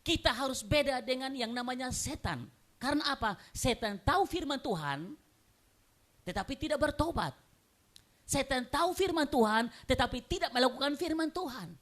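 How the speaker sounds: high, insistent sermon delivery; urgent pulpit proclamation; impassioned preaching. Real, not acted. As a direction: preach it forcefully to the congregation. Preaches at full force.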